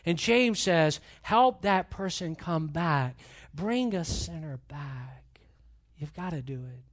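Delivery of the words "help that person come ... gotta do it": slow, hushed, fading to a whisper. Acted. Preacher urging the church to bring sinners back, in a slow whisper. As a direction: draw them close with a whisper. Intimate plea, slows to whisper.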